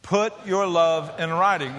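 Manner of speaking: "Put your love in writing" said slowly, each word marked; slow group recitation. Shown as a demonstration. Preacher leading the congregation in slow unison. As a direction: lead the crowd through it slowly. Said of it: "Say it with me, everybody".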